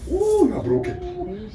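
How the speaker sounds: high, slow, mocking dismissal; mock partner. Partner mocking the wife's dress, high and slow. Partner voiced in acted quarrel.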